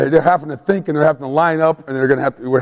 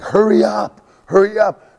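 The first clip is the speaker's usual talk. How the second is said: high rushed hurry call; urging yell; 8 semitones higher than usual. Retold or imitated. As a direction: push the kids to move fast. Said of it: "this is when we're really screaming at 'em".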